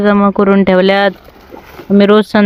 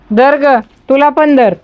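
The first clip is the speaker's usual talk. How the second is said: high, slow sing-song to the goats; coaxing goats; 5 semitones higher, slower than usual. Real, not acted. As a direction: lure the goats in with a lilting high call. Feeding the goats. (शेळ्यांना उंच गोड आवाजात बोलावणे)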